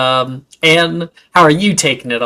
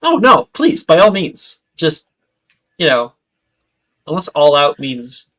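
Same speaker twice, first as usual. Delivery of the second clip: nervous joking; 4 dB louder than usual. Acted. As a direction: laugh off the threat nervously. GM jokes nervously in character.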